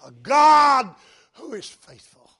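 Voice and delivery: loud, high proclamation; proclaimed loudly. Shown as a demonstration. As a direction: lift it into a triumphant cry. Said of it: "repeats the line louder".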